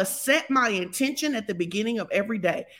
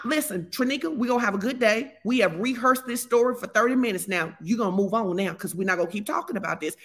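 firm self-talk. Shown as a demonstration. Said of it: "talk to yourself like this".

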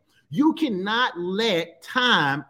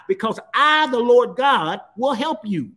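Because I, the Lord God rung out louder; loud proclamation; 3 semitones higher, 5 dB louder than usual. Acted. Preacher voicing God to the congregation, loud proclamation. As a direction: proclaim God's words to the church.

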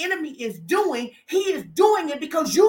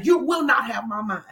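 commanding declaration; 2 semitones lower than usual. Shown as a demonstration. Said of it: "You gotta say".

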